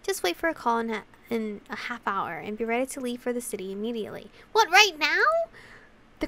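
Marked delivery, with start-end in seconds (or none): 4.5-5.2 high, loud, startled reply; startled question. Acted. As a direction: blurt it in acted disbelief. Startled by sudden summons.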